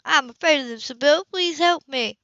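pleading fear. A narrator's reading. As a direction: play frightened to win sympathy. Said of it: "She shifted tack skillfully, threw her arms around Sybil, clinging".

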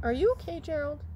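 puppet voice. Pretend. Doctor puppet asks.

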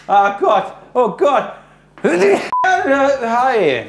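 high, excited outburst; giddy high-pitched exclamation; flustered excitement. Real, not acted. Food delivery arrives, flustered outburst.

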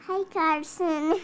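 loud greeting. Real, not acted. Sister greets baby loudly.

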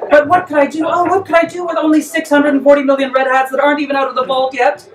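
cracking up mid-line; laughing. Real, not acted. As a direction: laugh through the mock despair. The speaker laughs through his lament.

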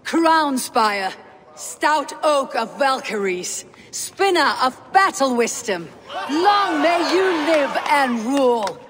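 solemn recited tribute; skaldic praise. Acted. Skaldic praise before the king.

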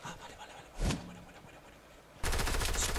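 tense whisper while hiding from enemies. Real, not acted. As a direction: breathe the words while sneaking. Hushed while sneaking in game.

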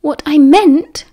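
high, slow, indignant squeak; angry squeak. A narrator's reading. Hurt boy defending himself to glaring friends, squeaking angrily. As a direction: squeak it with wounded irritation. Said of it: "he squeaked angrily".

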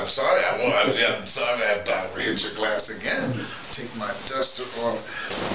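normal talking voice

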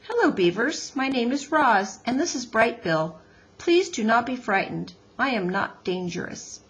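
lightly voiced polite robot, measured and careful; a hint of a courteous robot greeting strangers; Roz the robot.

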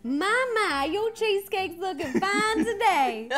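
mild Southern accent, Mama stretched out; an easygoing Southern lilt, lightly done. Shown as a demonstration. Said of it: "I can do a southern accent really good".

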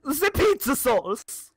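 slow, slightly high mock announcement; random outburst. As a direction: blurt it out, drawn out. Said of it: "being like".

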